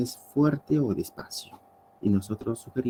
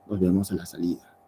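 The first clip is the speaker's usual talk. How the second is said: threatening tone; 4 semitones lower, faster than usual. Shown as a demonstration. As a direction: lower and faster, a veiled threat. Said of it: "pero también hay un tono de amenaza".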